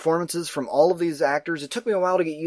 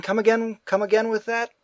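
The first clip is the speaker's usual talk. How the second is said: higher-pitched, questioning mock confusion; raised-pitch, lightly acted bafflement; puzzled listener; 5 semitones higher than usual. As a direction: play someone asking for a repeat, baffled. Acts out puzzlement at thick New England accents.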